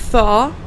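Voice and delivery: "Tho-ro-ly" broken into three separate syllables, th with the tongue out. Shown as a demonstration. Teacher breaking down "Tho-ro-ly" syllable by syllable. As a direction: split "Tho-ro-ly" into three clear beats. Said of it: "it's pronounced like this".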